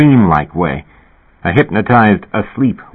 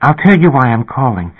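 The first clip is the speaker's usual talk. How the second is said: put-on higher, gentle young woman; lightly voiced shy young woman; 5 semitones higher than usual. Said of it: "She had a gentle voice".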